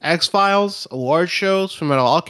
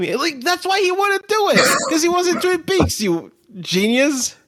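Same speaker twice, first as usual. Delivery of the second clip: sarcastic; 13 semitones higher than usual. Retold or imitated. Mocking sarcastic retort.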